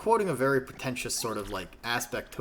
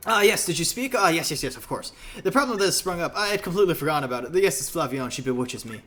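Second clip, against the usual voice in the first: lively, pitched-up character voice; flustered game character; 5 semitones higher, 5 dB louder than usual. Acted. Game captain caught daydreaming about the ship, flustered.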